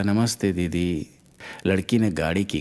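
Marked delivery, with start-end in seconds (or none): 0.0-1.1 put-on slow, sweet greeting from a little boy; lightly voiced, loving little boy; affectionate child. A narrator's reading. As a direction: stretch it out lovingly, like a small child. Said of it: "बच्चा प्यार से बोला".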